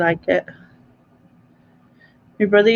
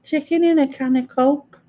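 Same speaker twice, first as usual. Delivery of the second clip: mock Scottish accent; 5 semitones higher than usual. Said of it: "How do you do Scottish?".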